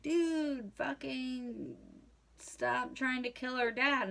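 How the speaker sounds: put-on kids telling off a stranger; family yelling.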